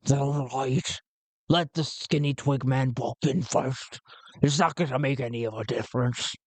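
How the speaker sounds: lightly put-on pirate grumble; grudging pirate. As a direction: give in grudgingly, in character. Gotul grumbles his assent.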